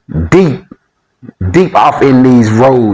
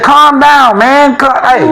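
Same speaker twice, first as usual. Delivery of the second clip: friend calming him; 11 semitones higher, slower than usual. Retold or imitated. Friend tells jittery buddy to calm down, high-pitched. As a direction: play the friend settling him down. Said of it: "he said".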